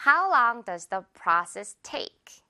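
very slow, each word spaced out; slow model sentence. Shown as a demonstration. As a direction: teach the sentence slowly. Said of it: "the process를 넣어줄게요".

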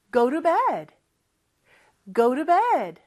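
"to" with a soft flapped t, almost an l; soft t in go to bed. Shown as a demonstration. Teacher models the soft t in "go to bed". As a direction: flap the t in "Go to bed" lightly. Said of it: "T 발음이 리을처럼 부드럽게".

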